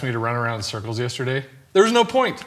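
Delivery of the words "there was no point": high and loud punchline; high squeaky punchline. Acted. Punchline delivery.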